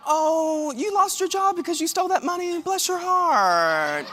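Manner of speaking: high, sweet, mock-pitying voice; sweet passive-aggressive Southern church lady; sugary Southern lady. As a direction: drip with fake sympathy, stretch out the blessing. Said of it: "when they say".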